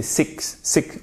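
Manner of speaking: "six" with the k heard before the s; audible k sound. Shown as a demonstration. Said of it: "On entend quand même le que". (« six » avec le k bien audible)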